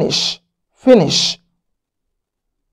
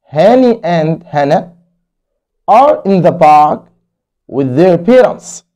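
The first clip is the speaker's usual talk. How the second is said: slow story reading; much slower than usual. Acted. Teacher reading the story aloud to kids. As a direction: read very slowly, each word clear.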